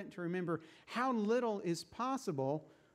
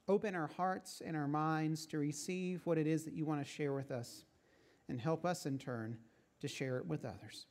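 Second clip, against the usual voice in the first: prayer. Real, not acted. Leads a word of prayer.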